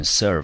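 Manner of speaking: teacher's demonstration of serve; pronunciation of serve. Shown as a demonstration. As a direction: say serve clearly as one syllable. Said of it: "我们念成serve".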